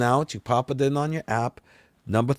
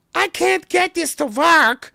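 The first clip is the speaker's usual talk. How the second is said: mock very high, shrill, fed-up, frustrated yelling; 5 dB louder than usual. A woman in the washroom yells about a card she can't use; imitating a mad, frustrated Peggy Hill. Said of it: "she's very mad and frustrated".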